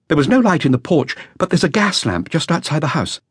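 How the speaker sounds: put-on a nervous young witness reporting to police; a hint of an anxious young musician; young flautist. Flautist describes the door.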